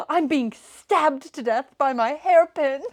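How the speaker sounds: dramatic. Retold or imitated. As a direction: overplay her agony, dragging the words out. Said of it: "she's being so dramatic".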